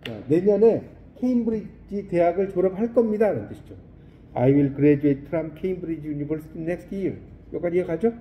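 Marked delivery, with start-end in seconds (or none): 4.3-7.2 slow, deliberate English model sentence; slow model reading. Shown as a demonstration. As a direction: read it out slowly word by word. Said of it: "model reading for students". (천천히 또박또박 읽는 영어 예문)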